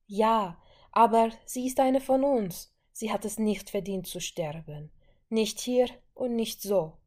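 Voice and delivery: impassioned protest. Acted. Wanda argues back.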